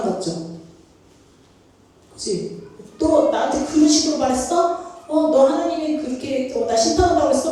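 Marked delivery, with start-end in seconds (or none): 3.0-7.5 higher, louder indignant retort; imitated angry outburst, pitched up; mock angry. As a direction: act out taking offense at the news. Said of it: "막 그러면서 막 화내고".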